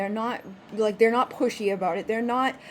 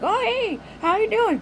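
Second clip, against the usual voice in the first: mock chirpy greeting; 9 semitones higher than usual. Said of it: "you know, like".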